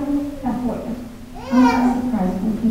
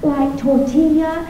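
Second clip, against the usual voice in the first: higher, sing-song mock teacher; higher, pleased teacher voice; teacher having an insight; 5 semitones higher, slower than usual. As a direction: play the teacher's bright discovery. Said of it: "she said".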